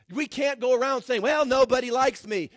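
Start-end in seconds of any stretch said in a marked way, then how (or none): 1.2-2.5 loud, mocking complaint of a self-pitying believer. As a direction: parody the whiner, hammed up.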